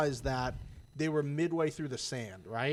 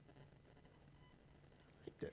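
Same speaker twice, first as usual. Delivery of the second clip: squeaky high voice; 25 dB quieter, much slower than usual. Real, not acted. Drawn-out squeaky confession.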